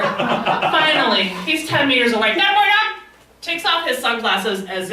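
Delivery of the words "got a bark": high, strained mock yell; imitated distant yelling. Man yelling from seventy meters away, high strained mock yell. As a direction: call it out as if from far off. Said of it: "He starts yelling at me".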